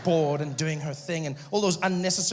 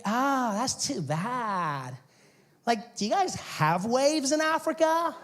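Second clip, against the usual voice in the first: put-on slow, high surfer-girl sympathy; California babe; 6 semitones higher, slower than usual. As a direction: play a ditzy, drawn-out beach girl. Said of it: "California babe".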